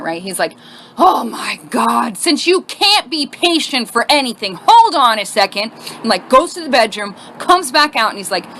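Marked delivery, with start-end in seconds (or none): 1.0-5.7 slow, drawn-out mock exasperation; heavily sarcastic. Boyfriend answering impatient girlfriend, heavily sarcastic. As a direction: drag it out with heavy sarcasm. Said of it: "the most sarcastic person on the planet".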